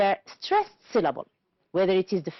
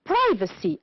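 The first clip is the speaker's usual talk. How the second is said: Privacy with PRI high, then falling; stress on first syllable; 4 semitones higher than usual. Shown as a demonstration. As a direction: punch the start of Privacy. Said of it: "The stressed syllable is in bold type".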